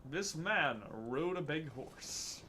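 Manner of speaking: slow, weighty storytelling; grand voice acting. Guardian describing the wicked man, grand voice acting. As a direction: draw it out like an epic tale. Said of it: "Time for the best voice acting".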